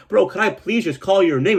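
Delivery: high pleading ask; begging a coworker for his real name, pleading high. Retold or imitated. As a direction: whine it out, exasperated. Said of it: "I'm like".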